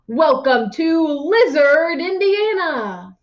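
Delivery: slow, proud proclamation; the mayor proclaims the new town name, a mild read-aloud shout; mild mock shout. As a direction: announce it to the crowd. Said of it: "Mayor Butterfrum shouted".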